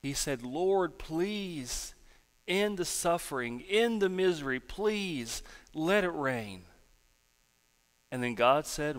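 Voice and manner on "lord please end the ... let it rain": pleading prayer, drawn out at the end; acted-out plea to the Lord; praying. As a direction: beg for relief. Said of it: "kept praying".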